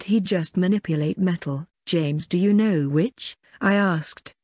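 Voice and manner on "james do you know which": slow, clear and deliberate, every word placed; clear strong voice. A narrator's reading. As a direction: say it carefully so he can't miss it. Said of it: "in a nice clear strong voice".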